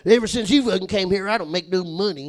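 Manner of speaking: complaining redneck juggalo; Jacob's redneck griping. Retold or imitated. Coworker griping to colleagues about money, redneck whine. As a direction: gripe in a thick redneck accent. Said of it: "he used to tell us all the time".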